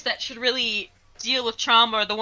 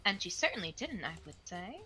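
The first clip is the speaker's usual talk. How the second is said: hushed, measured character voice; lightly voiced composed investigator; calm game detective.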